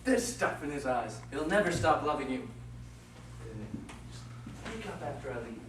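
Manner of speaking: a mischievous sprite pleased with his own trick; Puck the sprite. Acted. Puck voiced by the same reader.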